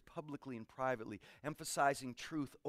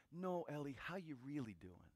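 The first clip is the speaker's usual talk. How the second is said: gentle caring question; 8 dB quieter than usual. Retold or imitated. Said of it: "all it took was the".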